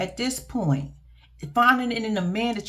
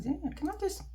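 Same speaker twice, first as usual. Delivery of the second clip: lusty murmur; 6 semitones higher, 10 dB quieter than usual. Retold or imitated. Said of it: "I was like".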